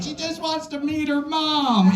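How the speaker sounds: high, slow choked-up sentiment; teary high voice. Retold or imitated. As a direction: say it high like you're about to cry. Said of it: "it's just like".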